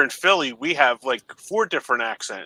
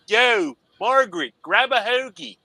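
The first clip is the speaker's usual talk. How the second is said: high-pitched, hammed-up Delco accent; Delaware County accent; 8 semitones higher than usual. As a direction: call out like a Delaware County local, Philly-area accent. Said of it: "coming to Delaware County".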